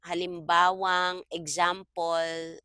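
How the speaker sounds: halimbawang drawn out slowly, ending in ng; slow teaching read of halimbawang; linker demo. Shown as a demonstration. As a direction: stretch halimbawang so the ng ending stands out. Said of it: "the moment I put N G here".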